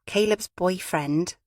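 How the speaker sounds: put-on slow, slight weight on "boyfriend"; slight emphasis. A narrator's reading. Gaynor naming Caleb's partner, slight stress on "boyfriend". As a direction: lean a little on the word "boyfriend", drawing it out. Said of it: "there was a slight emphasis on the word".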